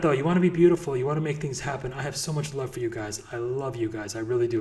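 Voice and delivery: normal talking voice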